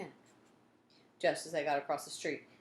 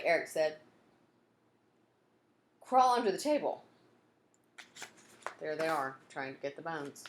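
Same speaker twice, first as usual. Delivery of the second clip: put-on lively read-aloud to children; story narration. A narrator's reading. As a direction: tell it like a bedtime adventure.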